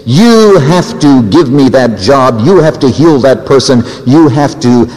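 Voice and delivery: lightly acted, deliberate insistence; mock demanding. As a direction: press each demand as a doubter bargaining with God. Preacher voices demanding ultimatum to God.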